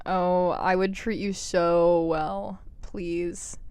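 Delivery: slow, hammed-up longing plea; half-joking swoon at a crush; mock pleading. Vlogger pleading with Andrew Jacobi, mock swoon. Begging a film character to choose her.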